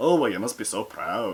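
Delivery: put-on Scottish accent, talking animal voice. Recapping a show, imitating an animal character who can now be understood, Scottish accent. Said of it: "he has like a Scottish accent".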